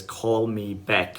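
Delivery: slow, deliberate call me back; slow and drawn out. Shown as a demonstration. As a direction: stretch each word out slowly. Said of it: "if somebody says".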